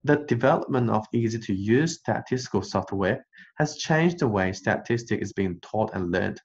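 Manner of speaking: tiny pause placed before has. Shown as a demonstration. Teacher tries a pause before has. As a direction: break briefly just before has. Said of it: "我们来试一试".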